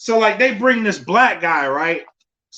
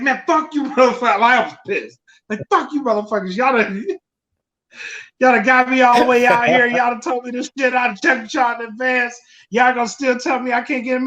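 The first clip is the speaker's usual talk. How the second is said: mock angry rant; 5 semitones higher, faster than usual. Retold angry tweet rant.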